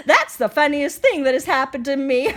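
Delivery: talking through laughter; laughing elephant. Acted.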